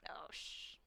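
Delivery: hushed whisper; soft conspiratorial whisper. Pretend. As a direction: whisper so nobody hears. Sneaky whispered exchange in crowd.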